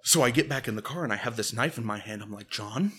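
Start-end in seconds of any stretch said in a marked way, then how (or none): 2.5-2.9 loud, higher, laughing indignant rant; outraged rant. Retold or imitated. Ranting at John for breaking his promise, outraged. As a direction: accuse him like he betrayed you.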